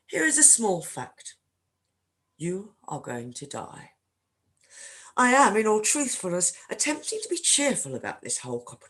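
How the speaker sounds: unhurried, expressive book reading; literary reading. Acted. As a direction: read the passage as a storyteller. Reads the Book Thief opening aloud.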